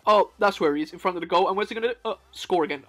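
breathless commentary; out of breath. Real, not acted. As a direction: talk while short of breath. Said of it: "I'm getting out of breath".

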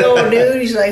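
high, punchy mimicked buddy voice; Joe Kidd accent. Buddy reacting to a stranger, high put-on accent. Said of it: "That's a pretty good Joe Kidd accent, too".

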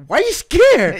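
very high, slow, laughing; laughing mock question. Mocking coworker's fear, squealing high with laughter.

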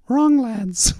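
high, loud mock verdict; imitated demanding actress. Director imitates actress correcting cameraman, high mock rebuke. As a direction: pronounce it high, mimicking the star.

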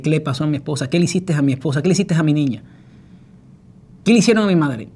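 building from worried to loud and high; alarmed demanding. Retold or imitated. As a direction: demand answers, fear rising.

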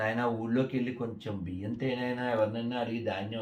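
soft, mildly pleading mother; retold pleading. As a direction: plead quietly, as a retold request. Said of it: "ఈ తల్లి బతిమాలుతుంది". (మెల్లగా బతిమాలుతూ)

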